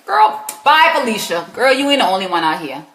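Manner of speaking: lightly put-on South Carolina accent; a touch of sassy South Carolina accent. Shown as a demonstration. Host dismissing a woman for the viewer, light South Carolina accent. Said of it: "in my South Carolina accent".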